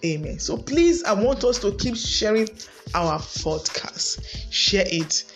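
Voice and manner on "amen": rising, intense praying at full force; fervent prayer. Acted. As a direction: pray it out over the congregation, building. Leads a prayer for marriages.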